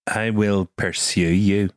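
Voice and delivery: learner's Northern Irish, pursue with a dip; Northern Irish copy. Shown as a demonstration. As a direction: copy the teacher's accent. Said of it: "we're getting Liam now".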